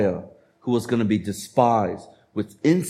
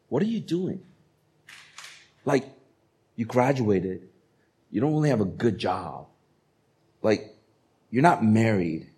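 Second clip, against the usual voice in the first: nagging parents. Retold or imitated. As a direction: needle them like a worried parent. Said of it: "You hear this from your parents".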